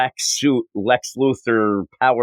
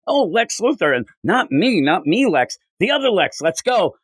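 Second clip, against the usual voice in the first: much higher and brighter, breezy and eager; playful heroine voice; 8 semitones higher than usual. Retold or imitated. Podcaster voicing Marilyn Moonlight to his co-host, high and breezy. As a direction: toss it off like a flighty heroine.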